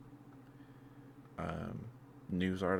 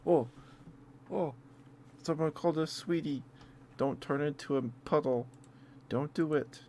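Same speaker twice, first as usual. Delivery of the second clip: higher, louder giddy heart voice; flustered inner voice; 8 semitones higher, 3 dB louder than usual. Retold or imitated. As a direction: voice your flustered heart as it melts. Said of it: "My heart was like".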